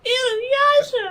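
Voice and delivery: very high, drawn-out anime yell; high-pitched stretched character shout; Inuyasha yell. Acted. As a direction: cry out the name, long and loud. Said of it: "You wanna do your Inuyasha?".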